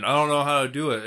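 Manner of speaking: loud mock whine, quick; mocking dumb voice. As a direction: sneer it like a clueless guy. Mocking clueless critic.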